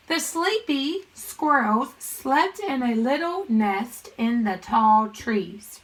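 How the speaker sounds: slow, measured teacher read-aloud; deliberate model reading. Shown as a demonstration. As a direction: read it slowly and clearly to young pupils. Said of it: "I'm gonna read the sentence".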